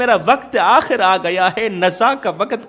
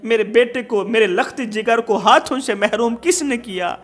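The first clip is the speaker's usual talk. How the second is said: crying out; 2 semitones higher than usual. Acted. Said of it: "رو کر کہنے لگی، چیخ کر کہنے لگی".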